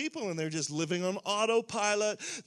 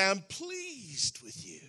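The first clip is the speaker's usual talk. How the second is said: tender Father's voice; much slower than usual. Retold or imitated. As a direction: say it gently like a father to his son. Father's words, said softly then strongly.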